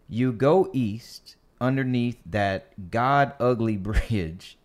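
lightly voiced politician quote; slow, measured politician voice; white senator voice. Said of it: "that was my white senator voice".

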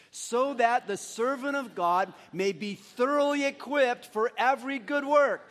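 slow, emphatic group recitation; recited with feeling. Real, not acted. Pastor leading the church from memory, recited with feeling. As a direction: declaim the verse slowly, building towards the end. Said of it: "say it all together with feeling".

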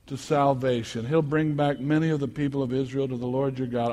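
ordinary talk, nothing marked

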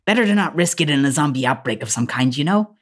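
lightly voiced grand lady, mannered; elegant woman. Elegant woman explains biting the sister, lightly mannered. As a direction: explain it away with swooping poise. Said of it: "And she says".

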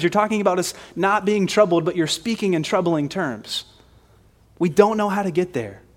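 acted-out frustrated protest; frustrated confusion. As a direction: voice a baffled follower pleading for plain answers. Acting out Thomas's confused complaint.

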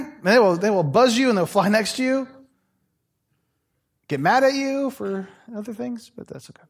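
ordinary talk, nothing marked

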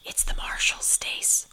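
voiceless, soft confiding whisper. A narrator's reading. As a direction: whisper it into the receiver. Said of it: "I whispered".

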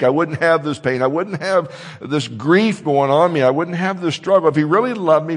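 loud, aggrieved complaint; complaining believer. Retold or imitated. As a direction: voice the hurt doubter pleading. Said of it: "fall into the temptation to think that God doesn't care".

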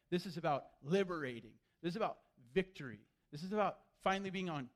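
rapid pleading; fast, pressing the point; urgent rush. Retold or imitated. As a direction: Peter rushing to convince Jesus. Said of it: "Peter's like".

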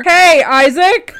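loud, drawn-out call with rising end. Real, not acted. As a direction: stretch out Hey and lift it at the end. Calling out to her son.

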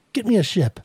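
high-pitched bellow without the volume; understated bellow. A narrator's reading. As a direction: call out a command, held back in volume. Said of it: "She bellowed".

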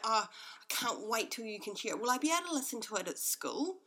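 lightly imitated eager kid; a touch of childlike excitement, lifting at the end; excited child. Son wants to hear mum's podcast at school, mildly excited. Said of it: "he was so excited".

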